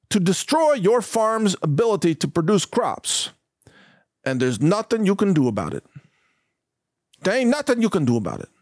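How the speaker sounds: mock Iowa government man, off-target regional accent; attempted Iowa regional accent. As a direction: put on a rough guess at an Iowan official's accent. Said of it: "I gotta get my regional accents a little".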